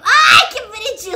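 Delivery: loud high cooing laugh; cooing squeal. Real, not acted. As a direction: gush over something cute. Coos at cute creature.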